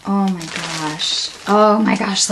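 normal talking voice

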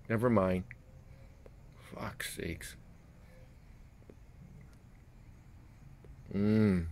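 talking around pipe stem; pipe in mouth. Real, not acted. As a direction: lips clenched on pipe. Seen 4: Pipe stem clenched between lips throughout labelled words, smoke visible.

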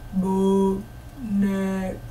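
bo-ne-co, each syllable pulled apart, quiet; "boneco" falado bem devagar, sílaba por sílaba; ogre's syllable talk. Shown as a demonstration. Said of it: "agora eu vou falar qual é o presente que o ogro queria dar".

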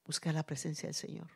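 ordinary talk, nothing marked

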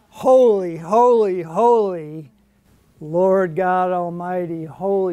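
loud opening holies, settling as it goes on; imitated crying out. Preacher imitates seraphim calling to one another, proclaiming. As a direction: proclaim each holy like a call back and forth. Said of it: "being shouted out by these burning ones".

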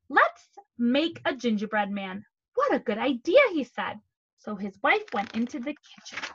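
animated read-aloud with emphatic key words; storytelling to children. A narrator's reading. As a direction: read a picture book aloud to young children.

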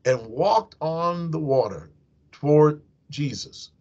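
measured, solemn Bible reading; preacher reading the Gospel aloud; scripture reading. Acted. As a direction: read the passage to the congregation. Reads scripture passage aloud.

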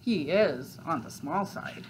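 fox thinking aloud, understated; musing to himself. Acted. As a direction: mull it over privately. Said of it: "said the fox to himself".

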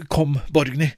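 calm, firm mother's voice at normal pitch; steady and decided, no rush. Acted. Mother leads Borgny into Langberggata, firm. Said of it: "sier bestemt".

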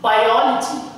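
"Biology" stressed on "ol", just before "logy". Shown as a demonstration. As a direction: lean on the second syllable of "Biology". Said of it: "stress on the syllable which is before logy".

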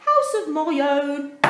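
relieved sigh. A narrator's reading. Dudley finally alone, sighing with relief. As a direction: breathe it out with relief.

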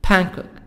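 "Bangkok" said "ban-kok"; silent G. Shown as a demonstration. Teacher drilling a city name, "Bangkok" with silent G. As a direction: leave the G of Bangkok unsounded. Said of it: "G silent".

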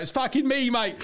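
high-pitched, laughing prank reveal; triumphant mock English gotcha; gleeful reveal. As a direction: crow it with a laugh.

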